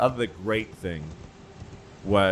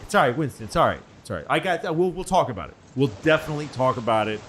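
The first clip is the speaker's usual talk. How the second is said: higher, louder soothing brush-off; mock reassuring president fobbing off Winston; placating FDR; 4 semitones higher, 4 dB louder, faster than usual. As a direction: pat him on the head, pitched up. FDR voiced placating Churchill.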